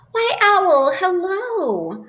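high, bright squeaky greeting; cheery mouse. Acted. Mouse greets Snake in a high cheerful squeak. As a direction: greet your friend sweetly.

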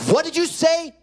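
high, sharp question; shocked mom. Retold or imitated. Mom confronts her son's outburst, shocked high question. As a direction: act out an alarmed mother's demand.

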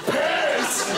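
puppet catchphrase. Acted. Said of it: "Piss is his catchphrase".

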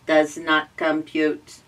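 put-on slow, mechanical old robot. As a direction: say it slowly like a rusty machine. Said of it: "replied an old rusty robot".

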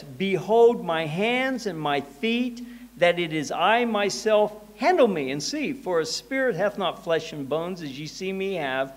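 emphatic reading from the pulpit; scripture reading. Acted. Reads scripture aloud.

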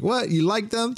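put-on a little girl, amazed at the compliment; surprised child. Bonnie surprised that her father likes her jewels. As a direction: pitch jumps way up in surprise. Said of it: "And Bonnie's like".

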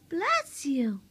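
P=A; loud bless you. Real, not acted. Baby sneezes, parent reacts.

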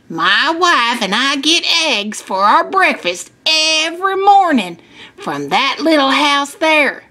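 lightly voiced farmer coaxing an answer; friendly farmer. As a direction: lead children toward the answer. Farmer gives the class a hint.

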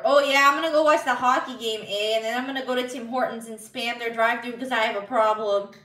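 hammed-up Canadian accent; mock Canadian accent. Streamer shows off hockey and Tim Hortons talk, mock Canadian accent. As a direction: put on a playful Canadian accent. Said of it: "I can totally do my Canadian accent".

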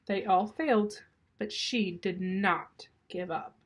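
put-on lively storytelling for children; story read-aloud. A narrator's reading. Reader tells children of Uncle Fred's snakes, lively narration. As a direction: read it expressively, savoring each phrase.

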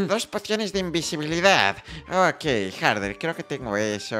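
lightly put-on villager voice; a slightly disguised shopkeeper voice; tío Paco. Fake shopkeeper taking Hardred's potion order, lightly disguised voice. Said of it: "¿qué te ha pasado en la voz?".

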